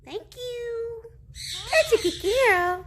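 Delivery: bright, high praise for a pet. Real, not acted.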